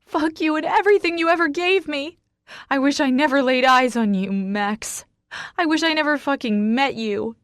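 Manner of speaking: high, loud, hurt tirade; furious scream. A narrator's reading. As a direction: scream out every regret. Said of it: "I scream".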